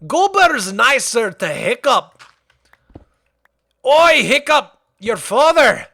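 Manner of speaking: high, jolly Scottish smith calling out; Gobber voice. Acted. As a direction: call to Hiccup like his gruff old mentor. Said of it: "sounds like Gobber".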